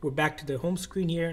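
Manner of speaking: ordinary delivery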